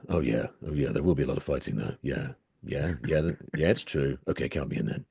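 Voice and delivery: deep non-human voice, slightly low; rumbling monster voice, low and steady; extremely deep bass voice. Acted. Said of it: "that's kind of a go-to voice for me".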